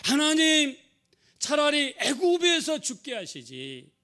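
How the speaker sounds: high, drawn-out protest to God; resentful complaint. Acted. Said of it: "불평하고 어느 데까지 원망했습니까?".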